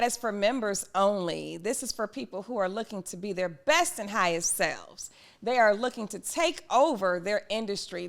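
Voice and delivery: emphatic, measured community pitch; promo read. Acted. Host pitching her members-only community to listeners, promo read. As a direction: sell the membership with deliberate emphasis.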